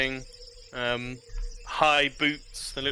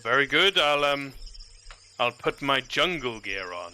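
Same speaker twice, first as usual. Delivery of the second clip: lord voice; 3 semitones higher than usual. Acted.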